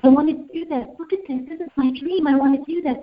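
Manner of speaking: put-on high, excited little girl begging; eager child pleading. Little girl begging her step-grandmother, high and eager. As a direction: beg like a thrilled little girl.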